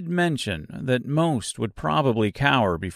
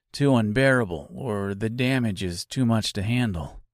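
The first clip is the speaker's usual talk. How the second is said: lightly voiced scarecrow.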